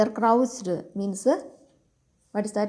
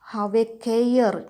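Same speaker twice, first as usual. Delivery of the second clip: slow and louder, warning the villains; mild mock shout; 3 dB louder, much slower than usual. Boy warning the bandits to keep away, slow loud shout. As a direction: draw out "Have a care" loud and slow like a threat. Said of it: "I will shout".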